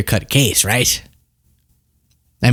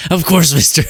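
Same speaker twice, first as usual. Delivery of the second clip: lightly hammed-up Trump, a bit higher; mock Trump impression; 4 semitones higher than usual. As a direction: teasingly mimic a bad Trump impression. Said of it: "He doesn't talk like that".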